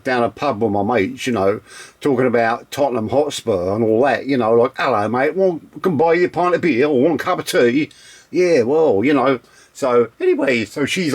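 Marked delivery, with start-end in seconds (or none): 0.0-7.9 Londoner. Shown as a demonstration. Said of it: "Not like me, like, like, you know, Londoner".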